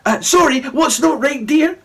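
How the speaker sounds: high, breezy mum voice; airy mum. A narrator's reading. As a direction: float it like a dreamy hippie mum. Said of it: "asked Mum, flouncing around the kitchen".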